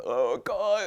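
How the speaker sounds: high, loud hammed-up oh God; mock dramatic exclamation. Teacher mimicking the emotional type, mock dramatic. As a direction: throw it out like a drama queen.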